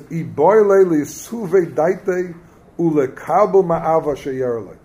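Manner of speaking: drawn out slowly, word by word; slow text reading; slow quoted reading. Shown as a demonstration. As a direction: read the source aloud slowly so they catch it. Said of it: "Listen to this".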